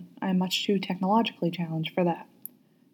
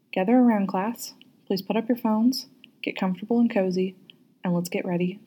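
teacher voice. Shown as a demonstration. Teacher gathers the class for story time, light teacher voice. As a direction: call the class together like a teacher. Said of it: "just like I would say in school".

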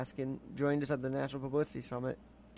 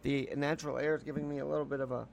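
blocked nose and wheezy; stuffy nose. Real, not acted. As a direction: speak through a stuffy nose. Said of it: "I woke up so stuffy".

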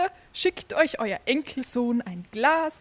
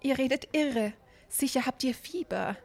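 horrified; 4 dB quieter, much faster than usual. Acted. Apothecary horrified, hushing.

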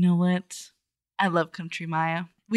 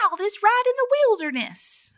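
mock ride announcer; 12 semitones higher than usual. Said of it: "where they're like".

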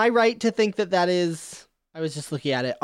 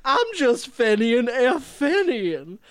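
put-on southern belle accent. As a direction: sweet-talk like a southern belle. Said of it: "he is like a southern belle".

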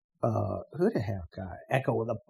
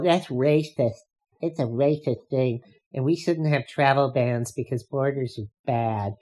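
mocking never-Trumper. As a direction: sneer it like a smug elitist looking down on workers. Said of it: "that's exactly their tone of voice".

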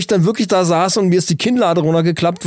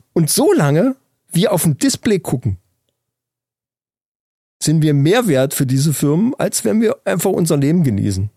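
weighty quotation. Retold or imitated. Finishes the recited quote with pauses.

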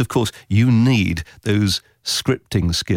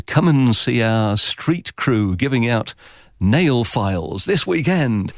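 lightly voiced radio headline, slow; mock promo read; 3 semitones higher, slower than usual. Producer quoting a street crew giveaway headline, mock promo read. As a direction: spell out the promo line slowly, mildly announcer-like.

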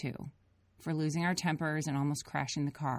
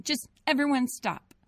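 higher tearful plea; crying plea; 9 semitones higher, 5 dB louder than usual. A narrator's reading. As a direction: beg everyone through tears. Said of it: "Grace cried again".

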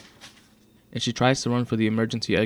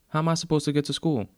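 higher-pitched indignant question; indignant teen; 8 semitones higher, faster than usual. A narrator's reading. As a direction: protest in a raised pitch. Teen girl protests to dismissive mother figure.

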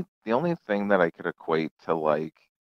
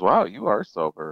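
surprised cop; 10 semitones higher than usual. Retold or imitated. Cop surprised he's sober.

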